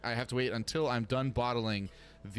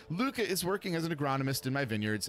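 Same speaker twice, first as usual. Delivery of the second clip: raised, lively hostess voice; friendly owner; 5 semitones higher than usual. Acted. Owner Elena greeting winemaker Emma, warmly lifted voice. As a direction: welcome a new client with delight.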